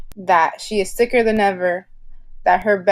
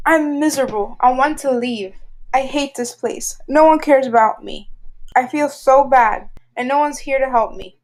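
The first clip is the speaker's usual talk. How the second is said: upset patient; 3 semitones higher than usual. Acted. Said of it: "he is very, very mad".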